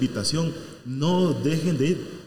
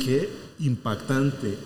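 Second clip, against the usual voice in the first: slow amazement; much slower than usual. Retold or imitated. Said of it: "Y yo dije".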